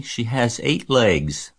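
put-on child working out a description, unhurried; thoughtful. A narrator's reading. Girl describes spider to her mother, thoughtful. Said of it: "said Fern thoughtfully".

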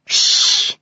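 breathy shush; hushing. A narrator's reading. Alice hushes the brothers near the sleeping king, hushing. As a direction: hush them sharply. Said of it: "Alice said".

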